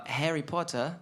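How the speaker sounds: put-on British pronunciation; British accent. Shown as a demonstration. Band member showing the host a British accent. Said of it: "Who can do a British accent?".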